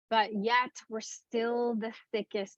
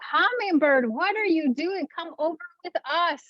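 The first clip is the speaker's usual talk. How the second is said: calling out; 7 semitones higher than usual. Acted. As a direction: call up urgently to the hummingbird. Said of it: "he calls out to the hummingbird".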